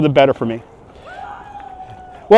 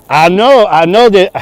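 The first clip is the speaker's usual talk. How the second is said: put-on arrogant French accent; 3 semitones higher, 4 dB louder, slower than usual. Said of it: "my French accent is the, is the arrogant French tourist accent".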